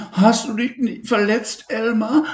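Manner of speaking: high, worried little friend; high-pitched worried Levi; Levi's voice. Acted. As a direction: ask gently like a concerned boy.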